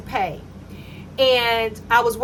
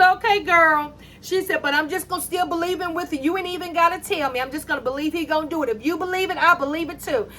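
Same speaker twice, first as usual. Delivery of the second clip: higher, quick, eager coworker voice; upbeat coworker; 4 semitones higher, faster than usual. Retold or imitated. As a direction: rattle it off like a cheerful friend. Coworker voiced, replying supportively.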